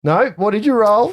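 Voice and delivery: light French chef voice, high; French accent. Acted. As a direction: ask like a fussy French cook. GM still in Saloni voice.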